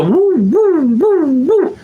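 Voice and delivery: high, loud, excited dog yips; dog noise. Retold or imitated. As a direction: yip like a dog that thinks it sees a squirrel. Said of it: "a dog will just go".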